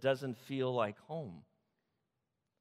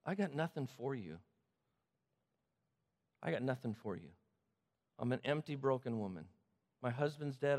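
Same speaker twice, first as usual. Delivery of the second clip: quiet resignation, with long pauses between lines; understated desolation; 2 semitones lower, 4 dB quieter than usual. Acted. Widowed Naomi to her daughters-in-law, quietly resigned.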